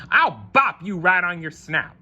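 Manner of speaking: yelling. Acted. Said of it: "he yelled".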